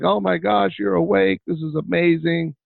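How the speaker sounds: high, excited mock cheer; cheering dad. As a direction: cheer him on as he walks by. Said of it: "I cheered and clapped and was like".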